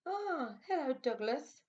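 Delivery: loud, high bark of a hello; barked greeting. A narrator's reading. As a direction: bark it out cheerfully. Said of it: "barked the sheep".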